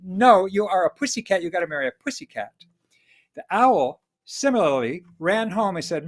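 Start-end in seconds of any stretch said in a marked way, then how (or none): 0.0-2.5 stern refusal. Acted. Mother cat forbids the marriage.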